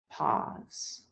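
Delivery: whispered count cue. Shown as a demonstration. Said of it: "So you are exhaling, pause".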